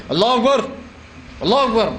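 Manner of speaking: firm, insistent allahu akbar as an order; a commanding call of allahu akbar; commanding takbir. Shown as a demonstration. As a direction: bark it out as a command. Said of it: "یہ حکم ہے".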